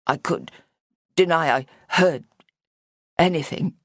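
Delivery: small, breathy and hesitant. A narrator's reading. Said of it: "in a small, breathy voice".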